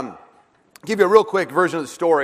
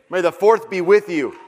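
louder call. Shown as a demonstration. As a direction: call it out loud to the room. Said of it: "Say it louder".

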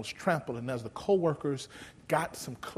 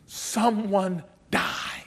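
slow; 4 semitones higher, 4 dB louder, much slower than usual. Shown as a demonstration. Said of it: "Nearly two thousand years ago".

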